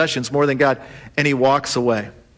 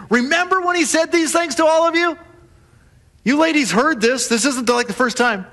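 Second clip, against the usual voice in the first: emphatic; 8 semitones higher than usual. Real, not acted. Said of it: "preacher addressing congregation".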